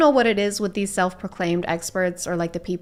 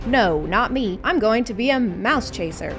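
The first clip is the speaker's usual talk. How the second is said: mock cat talking. Host voicing a cat who refuses kittens, lightly. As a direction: play the defiant house cat. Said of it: "Do you never hear a cat say".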